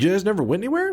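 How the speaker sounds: high, disbelieving dad voice; imitating a dad who can't believe it; incredulous dad. Dad voiced in retold story.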